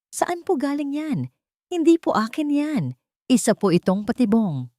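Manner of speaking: panicked protest. Acted.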